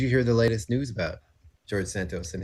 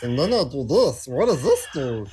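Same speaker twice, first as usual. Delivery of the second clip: helium voice; 3 semitones higher, 4 dB louder than usual. Real, not acted. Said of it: "it sounds like you're on helium".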